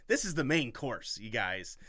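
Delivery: hyped up. Real, not acted. Hyping own story.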